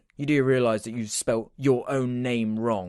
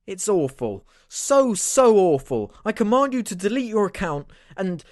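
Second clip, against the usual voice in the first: much higher, strained comic voice; higher put-on voice; 7 semitones higher than usual. Friend rants about the drawings in a high squeaky voice. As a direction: squeak it out in disgust. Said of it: "what is going on with your f***ing voice".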